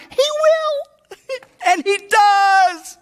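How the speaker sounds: high-pitched, elated cry; exultant. Real, not acted. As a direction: stretch the last word out in triumph. Preacher exulting over good news.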